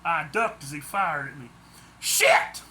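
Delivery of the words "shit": much higher, loud yelp of a curse; startled swear. A narrator's reading. Harold ducks gunfire, startled high loud swear. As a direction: yelp it as the shot rings out. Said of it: "I swore".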